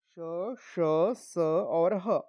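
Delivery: श, श, स और ह drawn out slowly, breath audible in each sibilant; pronunciation demonstration. Shown as a demonstration. Teacher modelling the four sibilant letters, slow drawn-out articulation. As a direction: stretch each sound in श, श, स और ह. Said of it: "जब हम ये वर्ण बोलते हैं".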